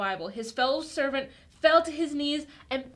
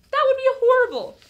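dismayed exclaim; 11 semitones higher, 10 dB louder, faster than usual. Acted. Retelling debtor's fate to kids.

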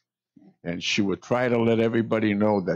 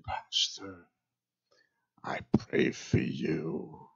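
broken English; 3 semitones lower, 7 dB quieter, slower than usual. Retold or imitated. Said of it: "she would say it in her broken English".

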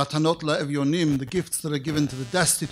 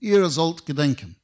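retold frustration; 4 dB louder than usual. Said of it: "out of sheer frustration".

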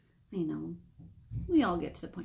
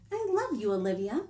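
tender. Acted. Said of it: "said Mom".

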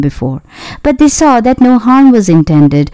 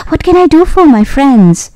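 lightly voiced higher-pitched mouse queen; a hint of squeak, pitched up; squeaky little mouse; 6 semitones higher than usual. A narrator's reading. Mouse queen offers help to friends, lightly squeaky. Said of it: "in her squeaky little voice".

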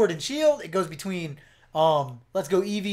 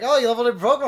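app voice; 7 semitones higher, 9 dB louder, much faster than usual. Pretend. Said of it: "It's gonna be like".

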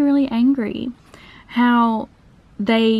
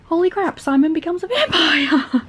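excited; 7 semitones higher than usual. Real, not acted. Sudden plot twist, excited reading.

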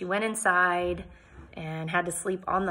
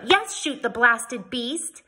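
slow, higher, louder insistence; a prim lady demanding the cow be shot; indignant demand; 5 semitones higher, 4 dB louder, slower than usual. Acted. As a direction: stamp out each word in outrage. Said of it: "I stamped my foot".

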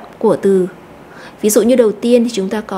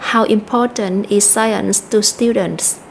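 slow model reading, stressing "How", "important", "science", "students"; weight "How", "important", "science" and "students", carefully spaced; sentence stress; slower than usual. Shown as a demonstration. Teacher reads the example question for learners, stressed content words. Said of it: "chúng ta có thể đọc là".

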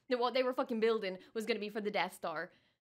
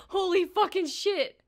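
louder, slow drawn-out amazement; stunned disbelief; 12 semitones higher, 7 dB louder, slower than usual. Real, not acted. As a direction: let the shock stretch out. Reacting to big reveal.

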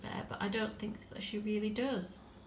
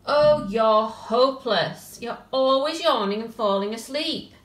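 slow, louder and much higher Wake up!; exasperated then yelling; 5 semitones higher, 12 dB louder, slower than usual. Acted. Tilly tries to wake the bear, exasperated yelling. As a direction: shout him awake, fed up. Girl wakes the sleeping bear.

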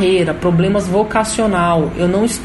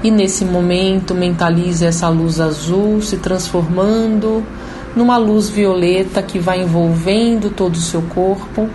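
guided meditation. Acted. Leads a guided chakra meditation.

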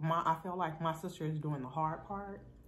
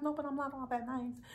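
higher, playful mock modesty; modest protest; 9 semitones higher than usual. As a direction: brush off the praise in a lifted voice. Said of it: "And I'll be like".

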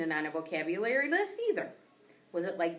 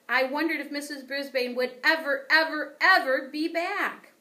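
longing; 8 semitones higher, 7 dB louder than usual. A narrator's reading. Sad wondering builds.

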